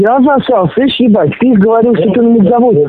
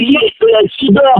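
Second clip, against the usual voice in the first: angry yell; 4 semitones higher, slower than usual. Real, not acted. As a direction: pitch jumps high in rage. Enraged outburst mid argument.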